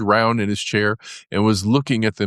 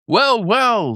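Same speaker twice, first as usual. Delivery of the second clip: high eager Mole voice; 4 dB louder than usual. A narrator's reading. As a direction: perk up high as the hungry Mole. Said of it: "said the Mole".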